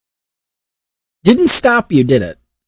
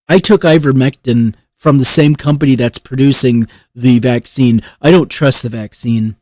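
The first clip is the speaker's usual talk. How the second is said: mock vaccine refuser; 3 semitones lower than usual. Refuser answering a plea to get vaccinated, mock dismissive. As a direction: imitate a stubborn refuser, pitch dropping lower.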